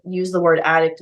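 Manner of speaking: usual speaking voice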